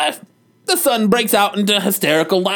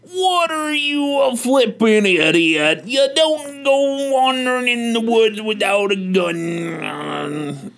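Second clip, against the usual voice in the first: angry dad voice; slower than usual. Acted. Dad yells at son.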